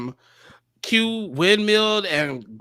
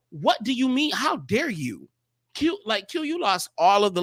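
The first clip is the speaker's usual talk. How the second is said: higher, fired-up indignation; indignant rant; 6 semitones higher than usual. Real, not acted. Fan ranting at a contestant who named a rival, indignant. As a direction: demand answers, outraged.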